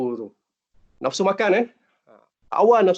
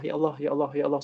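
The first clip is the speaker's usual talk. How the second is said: a hushed, inward calling on God; quiet prayer murmur; 6 semitones lower, 8 dB quieter, much faster than usual. Shown as a demonstration. Teacher softly demonstrating a prayer to students, hushed murmur. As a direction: softly murmur ya Allah to yourself. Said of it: "Doa pada Allah".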